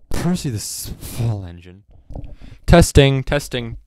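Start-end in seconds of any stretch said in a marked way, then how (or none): 2.7-3.2 booming mic check; too loud. Shown as a demonstration. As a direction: shout the test word. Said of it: "no, too loud".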